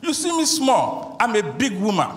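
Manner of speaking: put-on very high, strained voice of a spirit speaking through the girl; possessed woman's voice. Spirit in the girl defies the pharmacist, very high strained voice. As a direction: shriek it out as the spirit inside her. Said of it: "she said".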